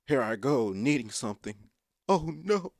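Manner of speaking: hammed-up alarm; mock dismay. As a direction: play up a little panic in a high voice. Acts out dread at needing something.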